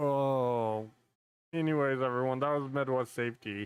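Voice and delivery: choked-up voice catching, holding back tears, drawn-out "oh". Reacting to a video about officers who lost a colleague, holding back tears. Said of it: "I'm gonna try not to break down crying".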